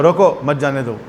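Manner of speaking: "روکو" alone, then "مت جانے دو" run together; pause after روکو. Shown as a demonstration. Gatekeeper reading the slip the other way, pausing after روکو. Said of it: "لکھا ہوا".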